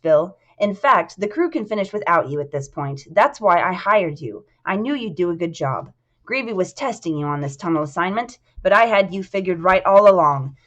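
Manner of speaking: lightly voiced boss praising his man; a touch of emphatic authority; assured boss Ryan. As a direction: reassure an employee with firm confidence. Ryan praises Bill's work.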